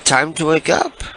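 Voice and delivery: high, sugary put-on caller voice; sweet fake-friendly caller; prank caller voice.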